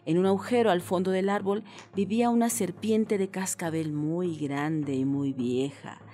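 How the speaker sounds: put-on measured, expressive children's story reading; storyteller's lilt; storytelling narration. A narrator's reading. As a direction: read a tale to children, stretching key phrases.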